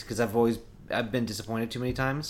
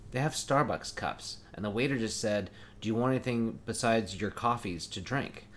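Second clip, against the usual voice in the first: soft, slow, hushed account of the waiter; hushed report; 3 semitones lower, 5 dB quieter than usual. Retold or imitated. Partner quietly reporting the waiter, soft and slow. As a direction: keep it low so they don't hear. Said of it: "She's like".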